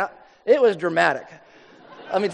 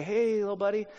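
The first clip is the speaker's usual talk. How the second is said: put-on soft, gentle greeting to a child; not scary; 2 semitones higher, 5 dB quieter than usual. Dad greets a lost toddler, soft and unthreatening. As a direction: speak softly, careful not to frighten. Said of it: "Try not to be scary".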